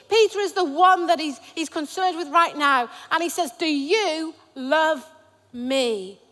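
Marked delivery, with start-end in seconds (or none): 3.5-6.2 slow question. Shown as a demonstration. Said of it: "I've not got it right there".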